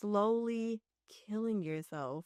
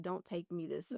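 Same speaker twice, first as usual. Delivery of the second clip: quiet plea; pleading; 6 dB quieter than usual. Retold or imitated. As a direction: beg softly. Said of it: "I remember pleading with God".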